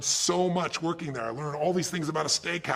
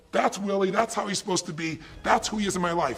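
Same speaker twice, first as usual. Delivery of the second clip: higher and louder, building enthusiasm; fired-up resolve; 5 semitones higher, 3 dB louder than usual. Retold or imitated. Ron voiced facing his tough boss, excited and determined. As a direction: pump yourself up for the workday. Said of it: "I can go to work and go".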